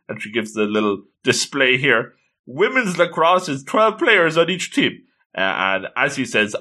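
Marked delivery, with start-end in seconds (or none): 2.5-5.0 higher-pitched mock fact-giving; lightly acted Wikipedia introduction; encyclopedia recital. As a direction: imitate a keen fan listing facts. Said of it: "the Wikipedia introduction".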